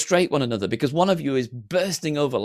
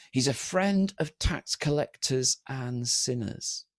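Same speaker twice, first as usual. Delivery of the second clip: drawn-out accusation, softer at the end; doing him down; 5 dB quieter, slower than usual. Acted. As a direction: imitate a slow, disparaging verdict. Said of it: "trying to do Jesus down".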